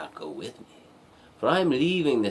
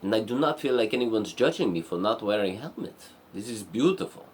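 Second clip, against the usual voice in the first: acted awe, pitch jumping up; enchanted princess; 3 semitones higher than usual. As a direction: gush over a first sight of nature. Princess marvels at the woods.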